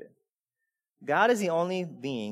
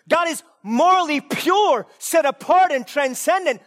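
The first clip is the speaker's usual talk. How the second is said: high, loud and slow proclamation; fervent pulpit proclamation; preaching at full force; 11 semitones higher, 8 dB louder than usual. Acted. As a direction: thunder out God's purity. Preaching climax.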